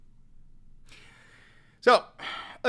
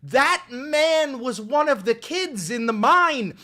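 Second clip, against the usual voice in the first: mock patriotic; 4 semitones higher, 5 dB louder, slower than usual. Mock-patriotic praise of voter.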